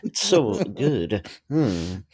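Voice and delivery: low, soft musing with savoured hums; Jeff Goldblum. Acted. Co-host plugging the show as Goldblum, low murmuring impression. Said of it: "hear it in the Jeff Goldblum".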